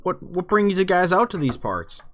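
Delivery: a hint of an inquisitive barkeep; bartender. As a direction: play a chatty barkeep questioning newcomers, lightly. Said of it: "the bartender is looking at you".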